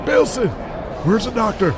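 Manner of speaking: high, swearing, worried ringside buddy; gruff wrestler voice. Acted. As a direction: fret and curse over a hurt friend. Helper carries injured wrestler.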